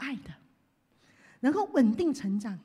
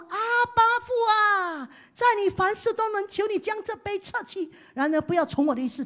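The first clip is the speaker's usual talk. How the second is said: loud, higher anguished plea; Jesus praying; 5 semitones higher, 5 dB louder than usual. Retold or imitated. Pastor voices Jesus in Gethsemane, loud and pleading. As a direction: plead with full voice. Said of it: "他说什么".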